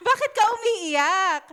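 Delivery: amused, loud "Bakit ka umiiyak?"; laughing question. Real, not acted. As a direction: ask it while still laughing. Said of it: "yun ang tanong sa kanya".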